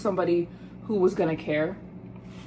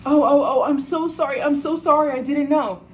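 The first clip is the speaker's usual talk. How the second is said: flustered apology; 5 semitones higher, 3 dB louder than usual. Retold or imitated. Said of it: "he's going".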